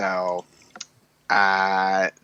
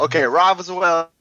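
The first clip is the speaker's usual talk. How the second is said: choppy audio cutting out; buffering stutter; 6 semitones higher, 3 dB louder than usual. Real, not acted. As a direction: connection dropping mid-word. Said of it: "Wait, Dan, start".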